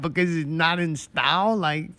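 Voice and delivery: mock incredulous rant. Real, not acted. Ranting about pockets and fanny packs.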